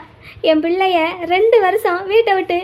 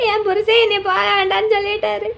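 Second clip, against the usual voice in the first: tearful complaint. Acted. Mother tearfully complains about husband.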